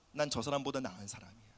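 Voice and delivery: murmured low, as if to yourself; private self-talk. Acted. Repeats the secret self-righteous thought.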